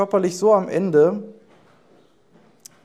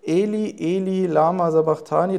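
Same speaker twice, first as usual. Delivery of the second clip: loud cry. Acted. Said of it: "rief Jesus mit lauter Stimme".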